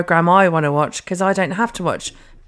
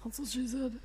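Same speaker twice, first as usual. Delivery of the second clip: very soft, higher echo of a whisper; imitated whisper; 5 semitones higher, 17 dB quieter than usual. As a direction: copy a whispered quip in a tiny voice. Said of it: "'cause you whisper".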